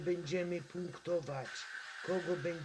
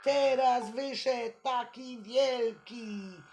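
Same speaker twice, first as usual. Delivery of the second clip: frightened shouting; 5 semitones higher, 6 dB louder than usual. Real, not acted. Game monsters jump out at night.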